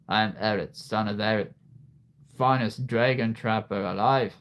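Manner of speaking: lightly voiced dragon trapper; a hint of a boastful trapper; Eret. Toy's character introduces himself, lightly acted. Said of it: "This is Eret".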